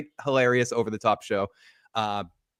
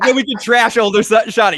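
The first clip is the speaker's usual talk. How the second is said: mock gleeful quote; 8 semitones higher, 10 dB louder than usual. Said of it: "you're like".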